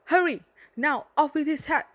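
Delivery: high, loud gleeful order; gleeful shouted command; eager command. Acted. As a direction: urge her on with wicked glee. Unicorn urging child to behead teddy.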